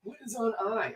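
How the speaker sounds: lightly voiced old man; a hint of a creaky old man. Shown as a demonstration. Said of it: "I don't know why I did the old man voice for that one".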